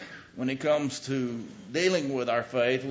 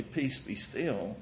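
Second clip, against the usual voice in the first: softer, slow, calm command; simply spoken; 6 dB quieter, slower than usual. Shown as a demonstration. Jesus stilling the storm, quietly and slowly. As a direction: speak it plainly with quiet authority.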